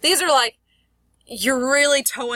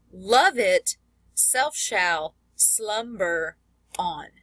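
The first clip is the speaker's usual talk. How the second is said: slow verse landing on "Love", "self", first syllable of "slumber"; trochaic stress; much slower than usual. Shown as a demonstration. Teacher reading last line, trochaic stress on "Love", "self", "slumber". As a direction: hit "Love", "self", "slum" in "slumber", with pauses between. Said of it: "first part of the line is emphasized".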